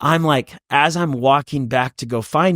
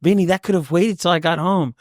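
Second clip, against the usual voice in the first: mock exasperation; 7 semitones higher than usual. Dad reacts to trivial emergency.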